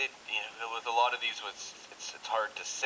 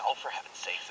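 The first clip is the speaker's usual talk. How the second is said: mild dismissive sigh; 4 semitones lower than usual. Shown as a demonstration. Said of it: "it's not that bad".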